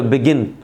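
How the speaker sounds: बिगिन with weight on GIN, final n held clear; stress on final syllable. Shown as a demonstration. Teacher demonstrating a stressed ending, बिगिन as bi-GINN. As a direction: lean on the end of बिगिन, "bi-GINN". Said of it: "इस पे जोर है".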